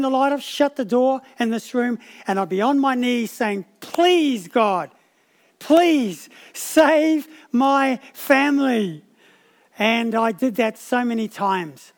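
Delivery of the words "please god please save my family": pleading prayer. Retold or imitated. Pastor praying alone on his knees for his unbelieving family, slow pleading. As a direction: beg God slowly for your family.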